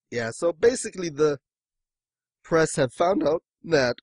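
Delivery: hiccuping mid-sentence; hiccups. Real, not acted. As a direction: hold back a hiccup. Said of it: "I've got the hiccups here".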